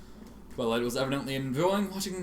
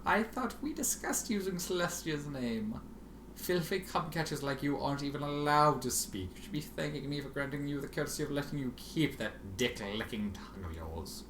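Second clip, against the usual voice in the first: condescending; 2 semitones higher, 4 dB quieter than usual. Acted. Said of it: "speaking to a very small, stupid foal".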